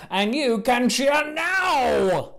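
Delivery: host rousing the crowd, slow and broad; slow, rousing invitation to cheer; big cue to cheer. Shown as a demonstration. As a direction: draw out the cheer cue slowly. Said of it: "Let's try this again".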